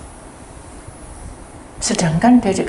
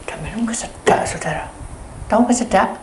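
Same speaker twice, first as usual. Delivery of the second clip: usual speaking voice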